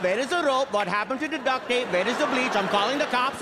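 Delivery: lightly voiced suspicious Indian mother; old Indian mom. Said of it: "My mom will just show up".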